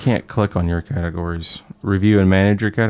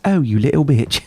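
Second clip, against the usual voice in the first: put-on scared little kid; 6 semitones higher than usual. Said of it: "He goes".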